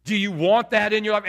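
drawled North Carolina altar-call questions; North Carolina accent. Acted. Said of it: "he'd say it in that North Carolina accent".

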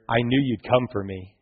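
steady and sure, no excitement; quiet assurance. Acted. Son quietly tells his father he trusted him, soft and calm. Son's line repeated calmly.

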